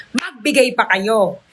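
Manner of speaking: usual speaking voice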